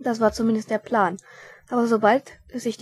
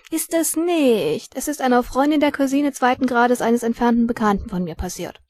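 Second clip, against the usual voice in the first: put-on pale boy; 3 semitones higher, 6 dB louder than usual. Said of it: "ein blasser Junge".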